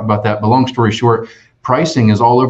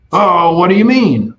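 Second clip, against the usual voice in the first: customer voice; 7 semitones higher than usual. Retold or imitated. Voicing the customer on phone.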